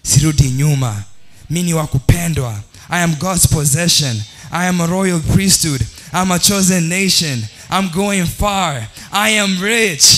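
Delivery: voicing the saved believer, triumphant; confident declaration. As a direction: proclaim it like a winner. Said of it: "Sasa unaongea sasa".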